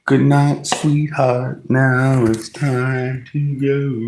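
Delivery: high squawky cartoon duck voice; Donald Duck voice. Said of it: "My Donald Duck impression".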